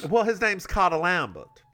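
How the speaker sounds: put-on Southern-accented name. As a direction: say Cotta Lambert with a Southern lilt. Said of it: "I'm making him a Southern judge".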